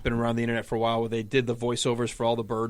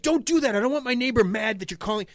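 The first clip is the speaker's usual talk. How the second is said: laughing scold; 9 semitones higher than usual. Retold or imitated.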